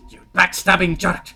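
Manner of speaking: high, loud accusing character voice; Puss in Boots. Acted. Game master quoting the cartoon cat, loud Puss in Boots accent. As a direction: hurl it as the betrayed cartoon cat. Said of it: "Puss in Boots accent".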